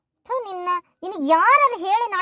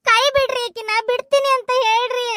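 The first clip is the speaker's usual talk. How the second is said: desperate plea; 5 semitones higher, 3 dB louder than usual. Acted. Wife begs him to leave her.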